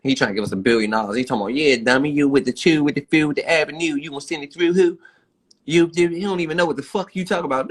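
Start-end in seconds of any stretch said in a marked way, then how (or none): 1.5-7.7 mock Baltimore accent. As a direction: imitate a Baltimore accent, pitch climbing as it goes. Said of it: "talking with the Two Who Avenue".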